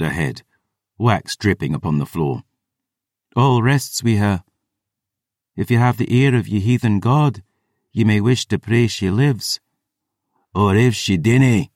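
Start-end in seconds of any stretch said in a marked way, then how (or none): 3.3-11.7 lightly voiced growling warrior woman, slightly raised pitch; mild growl. A narrator's reading. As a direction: growl it with restrained menace. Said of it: "Bryn growled".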